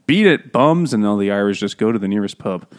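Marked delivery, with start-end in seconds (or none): 0.1-0.9 gruff dismissal. Retold or imitated. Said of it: "telling him to go home".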